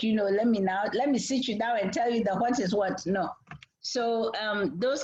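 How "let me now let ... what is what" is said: a hint of a stern parent sitting the kid down; understated preachy parent; mock parental lecture. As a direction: lightly play the lecturing parent. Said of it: "Don't come in all parental".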